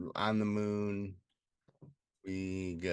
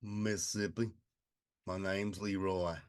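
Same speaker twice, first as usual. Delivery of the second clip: lightly played Mississippi accent; mock southern accent. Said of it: "Kinda southern a little bit".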